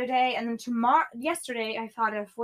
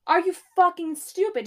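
raised, louder, exasperated; exasperated outburst; 6 semitones higher, 6 dB louder than usual. Real, not acted. Talking to camera, fed up: loud exasperated outburst. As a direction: snap it out in disbelief. Ranting at someone.

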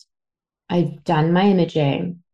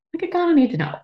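nervous laugh; 9 semitones higher, much faster than usual. Real, not acted. Laughing nervously about cancer.

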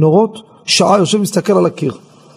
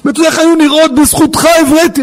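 high, fast, excited imitation; grateful stranger; 9 semitones higher, faster than usual. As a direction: gush thanks in a rush. Stranger thanks him for his cure. (בהתרגשות, מהר ובקול גבוה)

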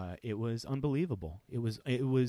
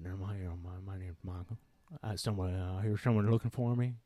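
Southern drawl. Retold or imitated. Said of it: "this man with a deep Southern drawl".

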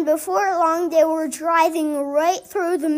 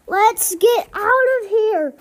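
higher, louder urgent yell; rally everyone to flee now; 5 semitones higher, 3 dB louder than usual. A narrator's reading. Duck urges the animals to run from the crowd, yelling. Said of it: "yelled Duck".

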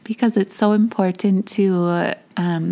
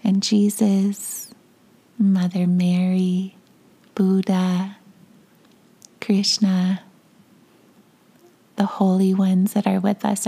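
guided meditation. Acted.

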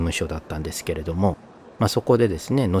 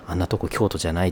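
dismissive quote; faster than usual. Retold or imitated. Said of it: "って言われるような".

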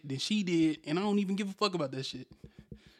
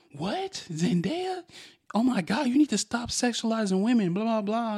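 raised, louder mock outrage; hammed-up offended woman flipping on him; imitating her outburst; 6 semitones higher, 6 dB louder than usual. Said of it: "she flipped".

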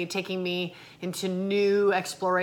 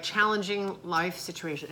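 ordinary talk, nothing marked

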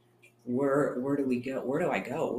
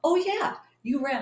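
imitating Leslie; 11 semitones higher than usual.

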